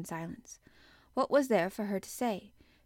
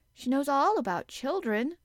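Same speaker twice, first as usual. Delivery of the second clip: put-on high, loud little girl; pitched-up, eager outburst; blurting child; 7 semitones higher, 7 dB louder than usual. A narrator's reading. Child blurts out her opinion.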